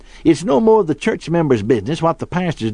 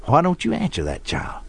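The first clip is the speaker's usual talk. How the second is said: hushed, softer retold whisper; imitated whisper; 3 semitones higher, 5 dB quieter than usual. Wife nudging husband about the child, mock whisper. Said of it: "my wife nudged me and whispered".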